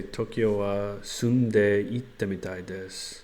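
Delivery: slow learner Japanese; carefully sounded-out Japanese; japanese learner accent. Shown as a demonstration. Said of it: "I think I can just say".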